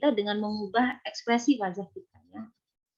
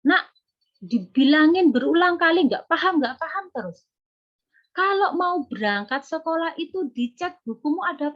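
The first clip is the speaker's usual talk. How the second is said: put-on exasperated nagging at a child; tired, nagging parent voice; scolding parent; 5 semitones higher than usual. Shown as a demonstration. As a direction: scold the child like a fed-up mother. Parent scolding child, negative energy.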